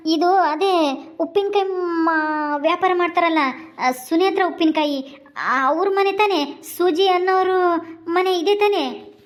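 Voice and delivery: high-pitched, panicky explaining; flustered alarm. Acted. Visitor tells angry sister he didn't know the house, flustered alarm. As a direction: plead innocence in a high, flustered voice.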